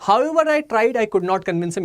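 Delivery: "However I tried I could not convince him" with no comma breaks; no pauses. Shown as a demonstration. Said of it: "एक sentence". (बिना रुके, एक ही वाक्य में "However I tried I could not convince him")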